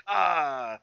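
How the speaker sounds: drawn-out comic death "ah"; mock dying groan. Friend re-enacting vampire's death scene, high mock groan. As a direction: groan like a hammed-up movie death. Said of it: "Yeah, him dying".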